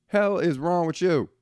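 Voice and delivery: pushing the repeat up into open outrage; exasperated outburst. Real, not acted. Repeats the rant line, escalating.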